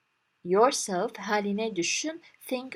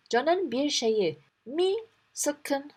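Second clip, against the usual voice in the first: slow concerned asking; 5 semitones higher, slower than usual. Acted. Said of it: "demiş".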